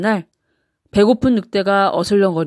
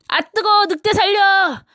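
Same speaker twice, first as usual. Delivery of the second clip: much higher panicked scream of pain; high-pitched yelp; 11 semitones higher than usual. A narrator's reading. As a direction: squeal like a scalded wolf. Wolf falls into boiling water.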